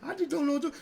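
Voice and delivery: mock a helpless man begging for a chance; imitating a weak man who blames others; mocking whiny weak man. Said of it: "the man who's like all like feeling like".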